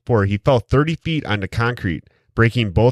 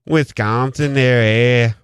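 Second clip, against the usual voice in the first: mock Wisconsin accent; 3 semitones higher, 3 dB louder than usual. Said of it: "'Cause we're from Wisconsin".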